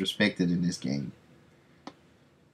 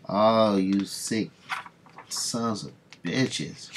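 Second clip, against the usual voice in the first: disgusted outburst; much slower than usual. Real, not acted. Reacting to the killing.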